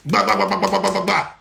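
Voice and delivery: string of even "ba-ba-ba" syllables; imitated rapid-fire babble. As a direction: rattle off ba-ba-ba to mimic a speech landing. Imitating rapid speech hitting France.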